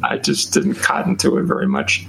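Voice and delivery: lightly put-on Southern accent; folksy Southern accent, played for a laugh. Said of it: "Excuse my Southern accent".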